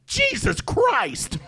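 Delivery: slow, high shocked shout; loud exclamation. Retold or imitated. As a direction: blurt it out in shock. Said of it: "and I said".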